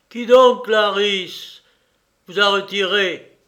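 indignant, emphatic questioning; indignant reproach. Acted. Brother reproaches Clarisse, first take.

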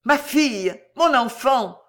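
terrible cry. A narrator's reading. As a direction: cry out for a lost daughter. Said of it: "hurla-t-il dans un cri terrible".

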